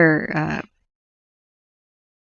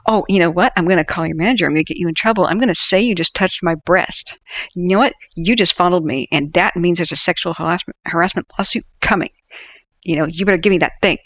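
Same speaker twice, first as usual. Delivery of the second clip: louder, escalating entitled rant; imitating a Karen threatening to call the manager; mock furious threat; 3 dB louder than usual. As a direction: threaten the clerk, building heat.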